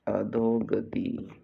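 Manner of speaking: "अधोगति" slow, vowels held; stretched for dictation. Shown as a demonstration. Teacher dictating a spelling, अधोगति drawn out slowly. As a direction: draw out अ, धो, ग, ति in "अधोगति".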